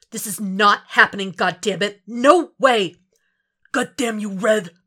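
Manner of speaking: frustrated shout; angry outburst. Acted. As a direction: yell at an absent partner. Frank finds blood at crash.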